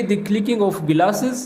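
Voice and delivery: very slow, word by word English; very slow translation. Shown as a demonstration. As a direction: drag each word out for learners. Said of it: "तो English में बोलेंगे".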